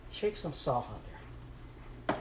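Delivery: slow, breathy whisper of the same line; whispered aside. Acted. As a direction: whisper it slowly, as if to herself. Repeats salt instruction, whispered.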